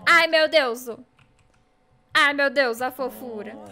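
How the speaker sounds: loud bursts of delight; overwhelmed gushing. Real, not acted. Streamer melts over her best cow friend, loud gushing. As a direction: exclaim loudly, helpless before cuteness.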